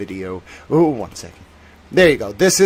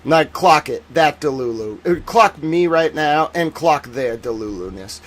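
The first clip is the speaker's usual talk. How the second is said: ironic zoomer; slower than usual. Pretend. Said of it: "start speaking like a Gen Zer".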